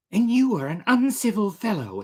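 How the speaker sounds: high, sneering captain voice; haughty defiant captain. Acted. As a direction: spit it back with contempt. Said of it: "said Vanderdecken".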